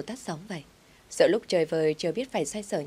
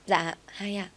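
put-on a light childlike voice; small girl asking for two dolls; child voice; 3 semitones higher, slower than usual. A narrator's reading. Little daughter answers the boss, lightly childlike.

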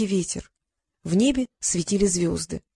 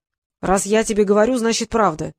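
curt. Acted. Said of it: "отрезал творец".

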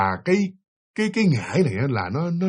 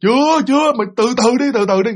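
a high, louder snapping shaman voice; stern shaman; 8 semitones higher, 3 dB louder than usual. Retold or imitated. Shaman snapping at the husband to wait outside. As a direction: hold him off, sharp and impatient.

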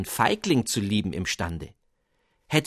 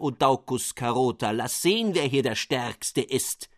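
defiant challenge; 3 semitones higher than usual. Acted. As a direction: taunt the king, daring him to fight. Radish duke defies the king.

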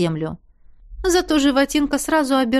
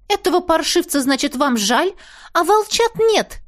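indignant outburst; 7 semitones higher than usual. A narrator's reading. Girl confronting Dragomir over sparing the fawn, indignant. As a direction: call out his hypocrisy, scandalised. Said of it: "Подскочила я к нему".

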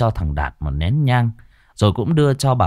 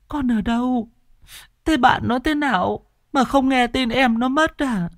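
put-on much higher, quivering old grandma voice; tearful old woman; 14 semitones higher than usual. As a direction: wail it like a grieving grandmother. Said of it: "Bà mếu máo".

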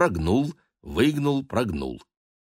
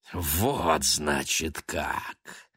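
unkindly; 3 semitones lower, 3 dB quieter, much slower than usual. Acted. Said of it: "недобро сощурился".

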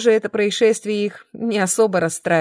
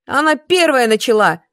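louder, higher accusing shout; yelling; 4 semitones higher, 5 dB louder than usual. A narrator's reading. Klima shouts during the fight, accusing yell. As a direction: yell to blame the other. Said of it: "закричала Клима".

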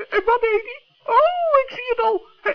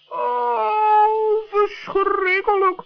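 plaintive wail; much slower than usual. Acted. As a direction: moan it out like all is lost. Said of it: "roep jij zo klagelijk". (klagelijk jammeren)

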